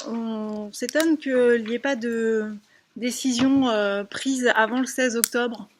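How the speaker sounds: muffled, hesitant speech behind a mask; through a face mask. Real, not acted. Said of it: "parler plus fort avec le masque".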